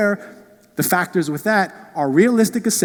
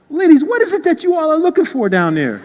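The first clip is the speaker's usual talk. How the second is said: high, laughing mock question to the ladies; teasing question; 9 semitones higher, 4 dB louder than usual. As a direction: tease them while chuckling, pitched up. Teasing women shopping for shoes.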